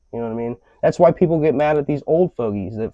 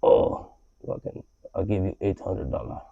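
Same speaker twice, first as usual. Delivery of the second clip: mock lowball customer; 6 semitones lower, 9 dB quieter than usual. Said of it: "they come and they're like".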